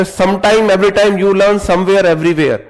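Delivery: loud mocking of broken English phrases. Teacher mocks the broken English students would speak, loudly. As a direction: ham up clumsy English loudly. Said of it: "फिर तो वो वाली English हो जाएगी तुम्हारी".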